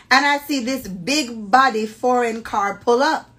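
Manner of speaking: animated, deliberate storytelling voice; dramatic story reading. Acted. Host reading friend's dating story aloud, dramatically. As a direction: read it out with playful theatrical relish.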